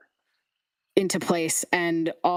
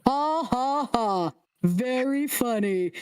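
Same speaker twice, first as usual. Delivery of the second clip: sarcastic eyeless head; 4 semitones higher, slower than usual. Acted. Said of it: "He goes".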